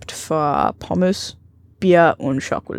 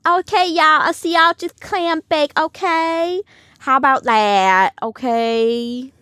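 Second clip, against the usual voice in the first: high, exaggerated New Jersey accent; 7 semitones higher than usual. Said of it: "dieser New Jersey Accent ist so".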